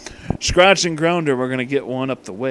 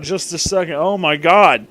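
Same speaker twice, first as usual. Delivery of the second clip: ordinary delivery, nothing marked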